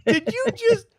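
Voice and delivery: very high, stretched-out stunned cry; a shrill, incredulous cry of disbelief; shocked disbelief. Retold or imitated. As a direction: gasp it out like a kid who just saw his dad shot. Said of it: "And the kid was like".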